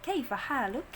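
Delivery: "Kaifa haluk" with thin k and fa; thin smiling letters. Shown as a demonstration. Teacher corrects the greeting for students, thin smiling letters. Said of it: "fa tipis".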